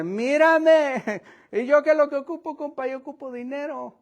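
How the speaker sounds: mock the beggar wanting cash; imitating a disappointed beggar; beggar's inner voice. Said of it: "Así es como él estaba pensando".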